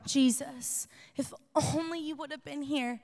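hushed, fading lament; softly grieving plea. Retold or imitated. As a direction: breathe it out like a broken-hearted sister. Mary falls at Jesus' feet.

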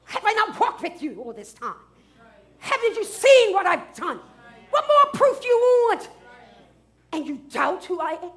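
lightly voiced exasperated Jesus; a hint of Jesus pleading with his disciples; frustrated Jesus. Pastor voicing Jesus to disciples, mildly exasperated. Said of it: "this is the frustration of Jesus".

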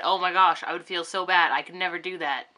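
loud put-on dismay, easing off; mock horror. Voicing someone who would feel so bad, mock horror. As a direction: act scandalized, hitting the first words hard. Acting out a double standard's outrage.

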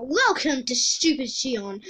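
slow villain's welcome; gloating evil king greeting. Acted. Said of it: "I am the Earth King".

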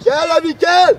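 urgent shout from the sideline; shouted call. Real, not acted. Coach demanding the ball from Levi, shouted call.

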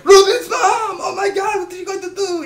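put-on high, loud, screaming Swedish-accented gamer voice; PewDiePie Swedish accent impression. Mocking a YouTuber's repeated joke in high Swedish accent. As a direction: shriek it like a Swedish YouTuber spotting the enemy. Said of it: "I know my Swedish accent is terrible".

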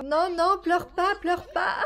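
high, pleading that ends in a laugh; amused begging; laughing plea. Real, not acted. Baby crying.

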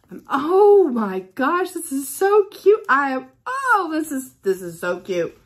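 high, loud delighted squeal; real thrilled gushing; excited squeal. Real, not acted. Squealing over a cute gift.

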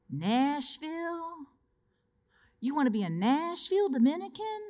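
retold priest, amused and taken aback; surprised.

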